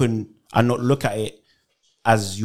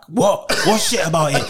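higher-pitched, mock-indignant questioning; indignant disbelief; 4 semitones higher than usual. Filmmaker reacting to bad reviews, mock indignant. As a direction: challenge the criticism in disbelief.

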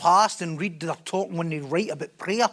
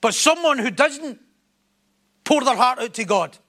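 emphatic sermon building in insistence; forceful preaching; 3 semitones higher, 3 dB louder than usual. Real, not acted. Preacher urging people to bare their soul, forceful preaching. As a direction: drive the point home, phrase by phrase.

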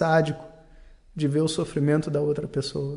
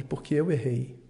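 put-on child's sad answer; 4 semitones lower, 5 dB quieter than usual. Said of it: "o garoto responde".

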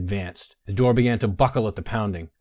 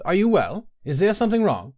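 higher, louder call through a door; 9 semitones higher, 4 dB louder than usual. Acted. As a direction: shout the name to someone inside. Guard calling through door.

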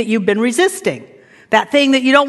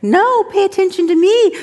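raised pitch, insistent demand for attention; demanding nagging thing; 6 semitones higher than usual. Acted. A problem calls for the listener's attention, insistent. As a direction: play the problem clamouring to be noticed. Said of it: "this thing over there that says".

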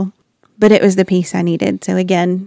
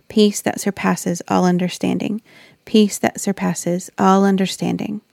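soft repeated mantra; 3 dB quieter than usual. Retold or imitated. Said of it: "I tried to repeat something to myself".

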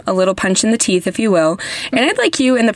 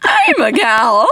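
squeak at phrase ends; 5 semitones higher, slower than usual. Shown as a demonstration. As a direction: squeak the word gal again on purpose. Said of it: "Did you hear that squeak?".

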